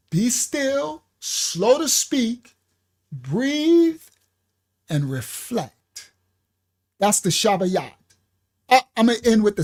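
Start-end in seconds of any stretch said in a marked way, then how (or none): 0.1-6.1 calm guided reflection. Shown as a demonstration. Guiding the class to calm.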